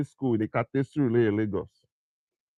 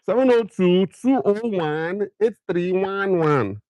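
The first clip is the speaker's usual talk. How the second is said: Nigerian accent; 3 semitones higher than usual. Shown as a demonstration. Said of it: "for Naija accent".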